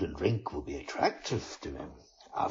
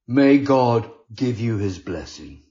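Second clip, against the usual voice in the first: warm booming blessing, louder; friar's blessing; 8 dB louder than usual. A narrator's reading. Friar to the penitent, loud hearty blessing. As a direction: bless him with full voice.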